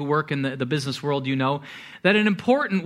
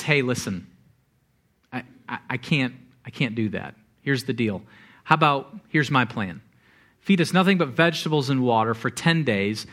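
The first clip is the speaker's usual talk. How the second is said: low-key, lower-pitched negotiating; measured polite proposal; 5 semitones lower than usual. Retold or imitated. Daniel to the official about his diet, measured polite proposal. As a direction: make a careful, reasonable offer.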